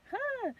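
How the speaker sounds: short high huh, kept small; stifle a scream into a small gasp; held-back scream. Retold or imitated. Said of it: "I didn't wanna really scream".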